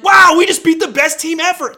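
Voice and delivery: gushing fake-humble victor; mock triumphant. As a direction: crow about the win in a put-on voice. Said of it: "you're like".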